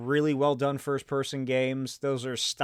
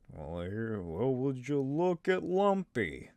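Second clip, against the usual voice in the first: lower, softer, slow wry voice; Harrison Ford impression; 3 semitones lower, 5 dB quieter, slower than usual. Shown as a demonstration. Vlogger retrying his Harrison Ford voice, low and soft. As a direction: play it dry and low like Han. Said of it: "There, that was a little better".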